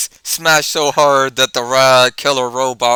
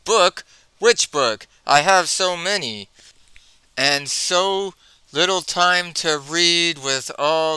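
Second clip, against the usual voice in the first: playing dumb; 4 semitones higher than usual. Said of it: "he acts stupid and says".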